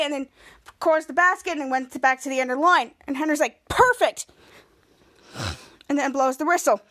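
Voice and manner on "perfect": high, excited approval; coach's praise. Retold or imitated. Henry praising a player, excited call. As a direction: praise it with a pitch jump.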